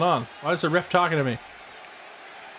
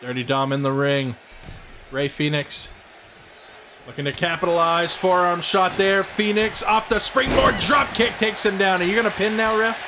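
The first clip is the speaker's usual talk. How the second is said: wrestling announcer call; play-by-play commentary. Acted. Plays the commentator.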